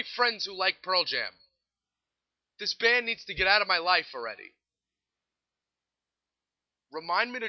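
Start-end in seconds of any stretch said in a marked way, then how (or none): 2.6-4.5 fed up. Real, not acted. Fed-up rant about a band.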